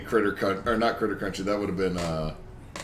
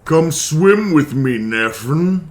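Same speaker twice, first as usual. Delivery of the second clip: put-on slow, eerie demonic child; 3 semitones higher, 6 dB louder, much slower than usual. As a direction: lure them in like a demon kid. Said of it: "good at doing a demon voice".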